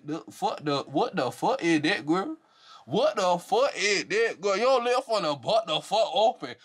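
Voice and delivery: slow, high, laughing through the words; incredulous laughing mockery. Real, not acted. Vlogger laughing at the cast member crying on the show. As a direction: drag it out, cracking up.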